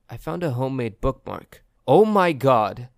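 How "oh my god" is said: shocked gasp. A narrator's reading. Sudden realisation of kidnapper.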